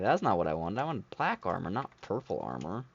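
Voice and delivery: mock protest, pitch jumping on key words; imitating complaint. Gamer quotes players upset about purple armor, mock complaining. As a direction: whine lightly like a let-down player. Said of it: "everyone complained that they're like".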